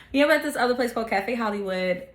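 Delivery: laughing through the words. Real, not acted. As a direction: retell it while cracking up. Retells the same line laughing.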